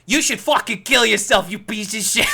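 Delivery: high, loud mock rage at the boyfriend; imitating a girlfriend cursing him out on TV, loud and high; mock furious outburst. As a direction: fling it like a scornful girlfriend on live TV. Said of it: "pregnant girlfriend ... and says".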